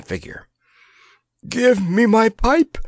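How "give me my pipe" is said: high, louder, choked gasp; panting, choked. Acted. Grandpa begging Tatters for his pipe, choked. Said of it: "panted Grandpa in a choked voice".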